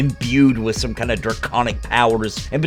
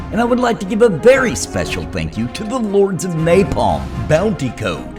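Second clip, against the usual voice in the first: higher-pitched announcer reading out names; announcer roll-call; 4 semitones higher than usual. Acted. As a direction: give each member a raised-pitch shout-out. Reads out top-tier member thanks.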